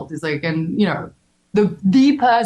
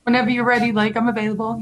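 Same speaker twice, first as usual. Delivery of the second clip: feigned super chill; 4 semitones higher than usual. Retold or imitated. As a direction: play it cool while secretly thrilled. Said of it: "trying to be, like, super chill".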